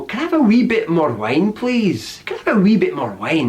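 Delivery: put-on light Scottish accent on a casual request; a hint of a Scottish accent. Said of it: "get ready for my Scottish accent again".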